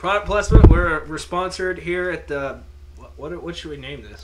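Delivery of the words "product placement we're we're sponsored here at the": mock sponsor announcer. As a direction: announce it like a joke sponsor plug.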